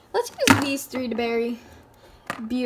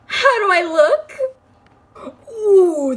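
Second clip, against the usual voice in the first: high, loud, laughing through it; 7 semitones higher, 9 dB louder than usual. Real, not acted. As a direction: giggle as you ask. Showing off the makeup.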